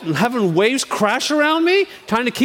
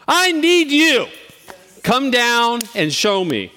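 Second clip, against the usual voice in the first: pleading prayer; 2 semitones higher, slower than usual. Pretend. Praying to God for help.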